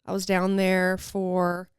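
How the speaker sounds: slight lisp from retainers; wearing a retainer. Real, not acted. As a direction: talk around retainers in your mouth. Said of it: "so if you guys hear me lisp, it's 'cause I have my retainers in".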